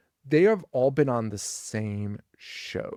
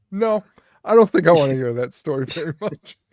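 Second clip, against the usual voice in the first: louder, higher hurried no thanks; playful loud brush-off; mock alarmed refusal; 4 semitones higher, 10 dB louder than usual. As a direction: back away loudly from a creep. Bride refusing creepy storyteller.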